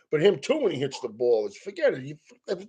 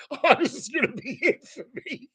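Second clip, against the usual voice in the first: higher, softer voice of a beaten pitcher; imitating defeated pitcher; 8 semitones higher, 4 dB quieter than usual. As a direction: play the doomed pitcher in a higher, softer, resigned voice. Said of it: "he looked like he said".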